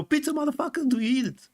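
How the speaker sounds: high, far-off hammed-up thug voice; mock tough guy. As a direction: bark the pizza question like a street tough. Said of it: "They're not saying".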